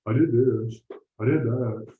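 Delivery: eager beginner defending himself; defensive novice. Retold or imitated. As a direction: insist you did everything already. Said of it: "like any novice".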